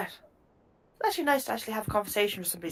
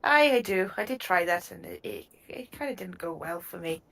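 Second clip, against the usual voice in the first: Irish gnome. Acted. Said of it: "the Republic of Ireland accent".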